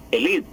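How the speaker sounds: elite, stressed on -lite, final e nearly silent; elite French style. Shown as a demonstration. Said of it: "y se pronuncia".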